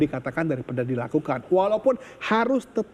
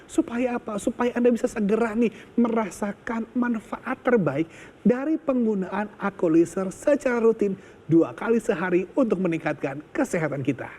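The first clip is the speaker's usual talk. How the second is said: infomercial; 3 semitones higher than usual. Acted. Infomercial hard sell.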